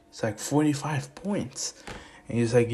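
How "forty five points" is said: slow, drawn-out disbelieving echo; surprised echo. Acted. Dad reacting to his son's score, surprised. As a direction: stretch it out, taken aback.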